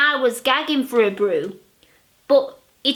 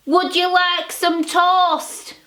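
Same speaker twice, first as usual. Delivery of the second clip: higher, slow mild husband voice; 6 semitones higher, slower than usual. Acted. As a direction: lightly voice the gentle husband.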